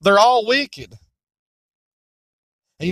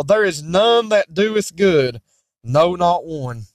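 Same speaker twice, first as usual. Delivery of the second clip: preaching scripture. Acted. Preacher reading Romans to the congregation, solemn. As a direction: intone the verses with weight.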